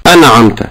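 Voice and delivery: أنعمت with a little bounce after the noon; bounced noon error. Shown as a demonstration. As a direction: release the noon of أنعمت with an echoing vowel. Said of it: "هي قلقلة النون،".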